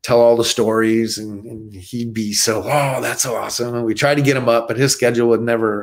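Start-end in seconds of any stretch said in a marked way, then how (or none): 2.6-3.7 lightly voiced laid-back actor, barely off his own voice; a hint of giddy, easygoing star; Keanu Reeves voice. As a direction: subtle mock of a friend's excited reaction. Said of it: "That's actually a good impression of him".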